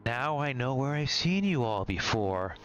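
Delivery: put-on high, cackling old crone; a nasty old witch. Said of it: "She speaks".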